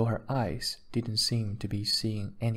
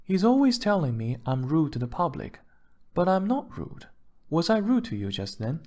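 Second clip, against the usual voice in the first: higher-pitched wife complaining; aggrieved, pitched up, appealing to a bystander; indignant wife; 6 semitones higher than usual. A narrator's reading. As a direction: protest in a raised female character voice.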